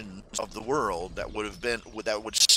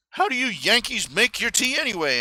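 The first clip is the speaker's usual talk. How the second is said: mock British guy; 10 semitones higher than usual. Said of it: "some British guy was going".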